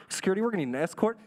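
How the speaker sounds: rushed, mock-panicked radio call; scared principal. Frightened principal radioing security for escort, mock scared. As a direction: blurt it fast into a walkie-talkie. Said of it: "he got scared".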